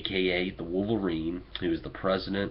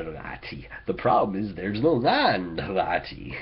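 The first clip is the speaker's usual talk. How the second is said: put-on light Irish accent with laddie; lightly voiced Irish leprechaun accent; 2 semitones higher, 3 dB louder than usual. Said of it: "you're okay with my Irish accent".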